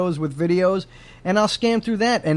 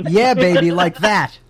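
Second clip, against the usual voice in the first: sexy porn voice; 3 dB louder than usual. Shown as a demonstration. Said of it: "let me hear what that sounds like".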